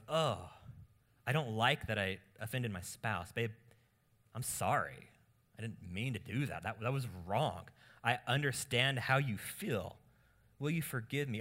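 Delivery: sincere, contrite apology; heartfelt apology to a spouse; humble repentance. Shown as a demonstration. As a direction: own the hurt and ask earnestly. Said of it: "Notice the adjective humble repentance".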